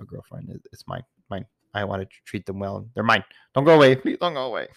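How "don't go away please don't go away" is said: mock pathetic plea. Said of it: "I'm making myself sound pathetic".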